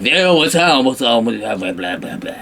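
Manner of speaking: put-on a jokey French accent mumbling blah blah; a French grandpa reading the story, in a jokey mumbled French accent; mock French. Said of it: "That's my impersonation of French people".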